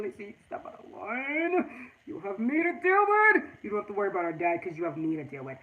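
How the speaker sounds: protective mom warning the daughter's fiance; stern mother. Retold or imitated. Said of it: "like, tell my son".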